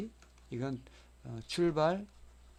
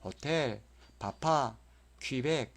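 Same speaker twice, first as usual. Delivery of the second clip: 호텔, 바파, 퀴벡 each stressed on the last syllable; back stress; much slower than usual. Shown as a demonstration. Teacher listing exceptions, 호텔, 바파, 퀴벡 stressed at the end. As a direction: push the endings 텔, 파, 벡 in 호텔, 바파, 퀴벡. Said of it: "이 세 가지는 뒤에가 있습니다".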